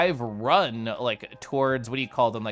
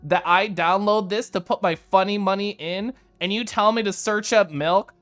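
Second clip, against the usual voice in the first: exasperated, higher and louder rant; annoyed; 5 semitones higher, 3 dB louder than usual. Retold or imitated. Streamer quoting her annoyed reaction to DoorDash, exasperated. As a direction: vent at the app in disbelief. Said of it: "I was so annoyed".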